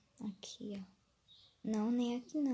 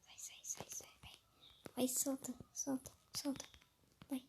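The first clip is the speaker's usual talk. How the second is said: urgent whisper; 3 semitones higher, 8 dB quieter than usual. Real, not acted. Urging game object, hiding quietly.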